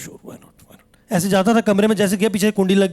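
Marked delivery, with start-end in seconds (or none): 0.0-1.1 whispered, drawn-out and very slow; nervous whisper of a boy who knows what's coming; a slow, frightened whispered yes; meek whisper. Retold or imitated. Boy meekly agrees before beating.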